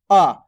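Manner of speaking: short vowel आ said as "a", mouth barely open. Shown as a demonstration. Teacher shows pupils the first vowel, short "uh" for आ. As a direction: say आ as a brief "uh". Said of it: "इतना ही मुंह खुलेगा सिर्फ आपका".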